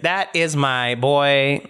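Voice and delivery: slow, proud drawl of a doting owner; proud pet owner talking slowly; proud gnome owner. Acted. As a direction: savour each word like a proud dad. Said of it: "He's like".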